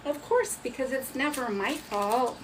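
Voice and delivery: mock-innocent sarcasm; sarcastic. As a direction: jokingly shift the blame. Joking about blaming the strap.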